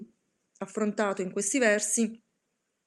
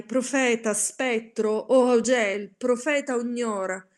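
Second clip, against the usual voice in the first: shouting; 2 semitones higher, 5 dB louder than usual. Acted. Narrator screams at the raven, louder and desperate. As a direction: hurl the words at the bird.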